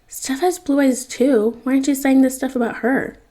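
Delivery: indignant protest. Acted.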